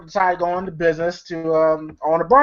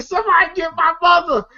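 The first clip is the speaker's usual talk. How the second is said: mock panicked cry; 10 semitones higher than usual. Acting Day Day grabbed by the neck.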